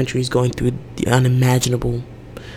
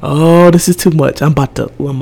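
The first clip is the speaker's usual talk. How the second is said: panicky inner voice; 3 dB louder than usual. Retold or imitated. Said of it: "I can feel myself being like".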